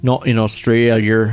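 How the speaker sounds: put-on Australian accent. Denying it in an Australian accent, "Australia" ending in R. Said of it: "put the R at the end".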